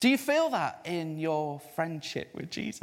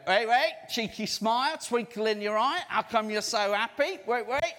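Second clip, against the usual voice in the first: lightly voiced teasing clerk, laughing; playful postal clerk, laughing; imitating a shopkeeper; 4 semitones higher than usual. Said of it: "and he went".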